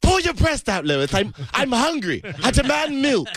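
high, swooping comic demand; demanding character voice. Acted.

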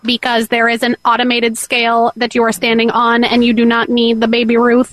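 even, machine-like robot voice. Pretend. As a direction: speak as the store robot. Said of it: "The robot".

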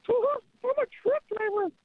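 old-time cartoon character voice; vintage cartoon voice. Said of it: "Use your cartoon voice".

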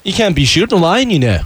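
quick mock Liverpudlian; playful Liverpool accent; a famous band's accent. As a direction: say it in a Scouse lilt. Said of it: "I, I slipped into Beatles".

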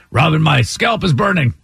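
mock-gruff plea from a man in trouble. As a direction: call for help in a lightly gruff put-on voice. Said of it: "he had kind of a gruff voice".

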